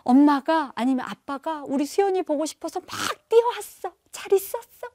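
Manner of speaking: high, gushing parent's hello; excited, loud, affectionate welcome; loving greeting. Shown as a demonstration. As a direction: show the child how much you missed them. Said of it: "이렇게 한번 말씀해 줘 보세요".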